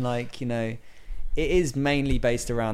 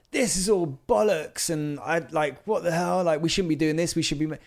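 exasperated outburst; 5 semitones higher than usual. Retold or imitated. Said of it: "I would have gone".

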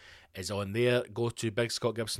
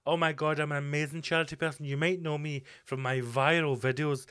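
mock charity influencer; 4 semitones higher than usual. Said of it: "This idea".

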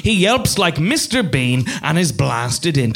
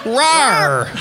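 feeble cub roar; 5 semitones higher than usual. Acted. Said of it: "attempts a ferocious lion roar".

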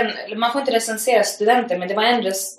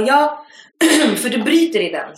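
higher, matter-of-fact mimic of the student; imitated student; 5 semitones higher, 3 dB louder than usual. The student insisting she has an accent, lightly mimicked. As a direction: do her voice, sure she's right.

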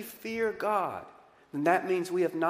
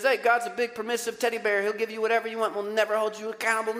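higher, breezy mocking voice; lightly hammed-up easygoing preacher; mock permissive preacher; 5 semitones higher, faster than usual. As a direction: lampoon a feel-good preacher. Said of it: "on the other hand says".

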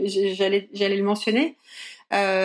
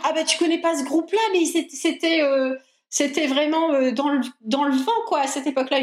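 higher, a mock know-it-all partner voice; imitating her partner; 4 semitones higher than usual. Mimicking her older partner quizzing her on bands, higher and mocking. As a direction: tease him by playing his surprised tone, pitched up. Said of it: "Donc, du genre".

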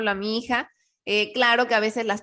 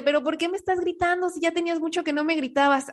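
daughter's complaint; 6 semitones higher than usual. Retold or imitated. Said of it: "ya cuando mi hija me dice".

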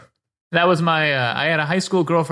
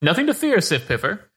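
put-on calm the frightened girl; reassuring shopkeeper; 2 semitones higher than usual. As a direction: shopkeeper calms a nervous teen, reassuring. Shopkeeper soothes nervous girl.

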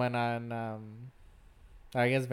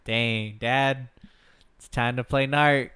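excited shout; 8 dB louder than usual. Pretend. Mock excited kid shout.

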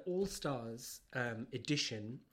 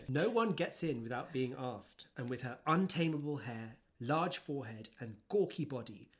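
blurb reading. Acted. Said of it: "read a little bit of the blurb out".

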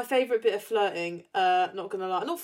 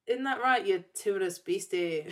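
put-on light, amateur Scottish accent; attempted Scottish accent. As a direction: quote it with a tentative Scottish accent. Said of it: "I can't do the accent".

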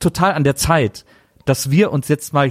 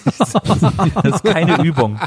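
mock stern; 5 semitones higher, much slower than usual. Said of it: "mock stern warning, laughing".

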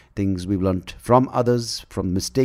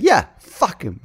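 mock Queen voice; 9 semitones higher, 5 dB louder, slower than usual. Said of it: "I would just be like".

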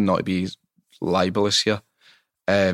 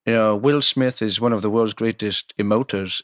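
a mock of his mixed-up accent, Welsh, Indian or American; a singer's odd accent. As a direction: lightly imitate a celebrity's strange, wandering accent. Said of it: "my impression of it is".

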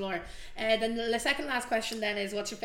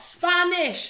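excited punchline; 9 semitones higher, 9 dB louder, slower than usual. Real, not acted. Excited punchline of dog story.

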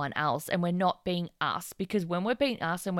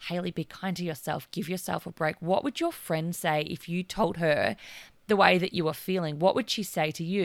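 gentle self-talk. Retold or imitated. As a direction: talk to yourself like a good friend would. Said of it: "take the pressure off and go".

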